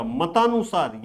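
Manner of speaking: मतानुसार with weight on the long ता; stress on long vowel. Shown as a demonstration. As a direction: lean on ता in मतानुसार. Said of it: "वहीं पर ज्यादा जोर दिया जा रहा है".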